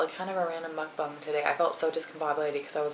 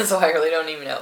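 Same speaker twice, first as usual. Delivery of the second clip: laughing; 11 dB louder, faster than usual. Real, not acted. Laughing while repeating herself.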